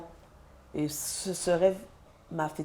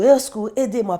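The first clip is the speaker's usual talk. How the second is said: much louder, higher call for help; retold cry for help; 5 semitones higher, 9 dB louder than usual. Mother calling nurses while her son collapses, retold loud cry. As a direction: shout for help down the corridor. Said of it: "Et je crie au secours".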